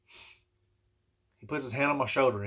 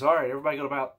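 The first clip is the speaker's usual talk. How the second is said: imitating a preacher breaking off mid-sentence; retold mid-sentence stop; 2 semitones higher, 6 dB louder, much faster than usual. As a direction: announce it louder, then cut off abruptly. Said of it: "He stops mid-sentence".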